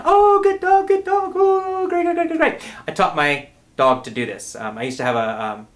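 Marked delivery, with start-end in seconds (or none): 0.0-2.6 very high, loud, over-the-top praise; crazy celebration. Shown as a demonstration. Rewarding the dog for sitting, with ecstatic high praise. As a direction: celebrate the dog like it won a prize. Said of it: "you go crazy and you have a big celebration".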